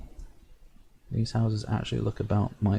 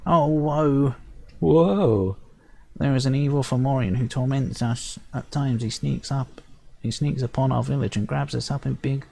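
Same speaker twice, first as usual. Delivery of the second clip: high fairy voice with angry outbursts; a tiny chief venting his woes; upset sprite chief; 6 semitones higher than usual. Acted. Sprite chief complaining about the evil Fomorian, high and upset.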